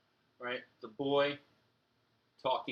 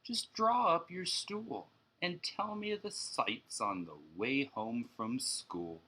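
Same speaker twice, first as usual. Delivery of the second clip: calm dad; 3 semitones higher, slower than usual. Acted. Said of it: "said quite calmly".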